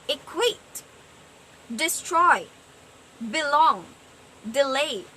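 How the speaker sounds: "equate, destroy, belong, delay" each stressed on the second syllable; light first syllable, stressed second in "equate, destroy, belong, delay"; iambic stress. Shown as a demonstration. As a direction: separate each word, leaning on quate, stroy, long, lay. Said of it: "are unstressed syllables".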